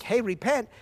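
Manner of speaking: loud, high urgent call to repent; fiery preacher voicing the apostle; preaching apostle. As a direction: voice Peter pleading with the crowd. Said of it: "He's like".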